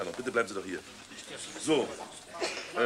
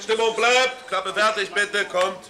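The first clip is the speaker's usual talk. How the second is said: higher, louder rapid commands; urgent call; 8 semitones higher, 5 dB louder, much slower than usual. Acted. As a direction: hurry the crew along. Director urging crew to restart.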